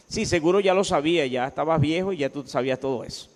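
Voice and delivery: lightly mocking, feigned agreement; ironic. God putting Job in his place, mildly ironic. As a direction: pretend to concede, with understated sarcasm. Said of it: "le habla a Job con ironía".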